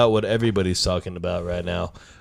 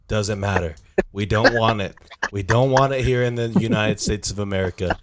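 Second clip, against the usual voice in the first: Donald Trump impression. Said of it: "I'll answer it like I'm Donald Trump".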